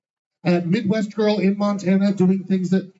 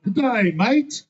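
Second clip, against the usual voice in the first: put-on Australian accent; 5 semitones higher than usual. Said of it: "I can't really do an Australian accent".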